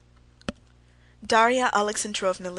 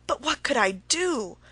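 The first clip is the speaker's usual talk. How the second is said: pitiful; 5 semitones higher, 5 dB louder than usual. A narrator's reading. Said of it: "he kept saying in a pitiful voice".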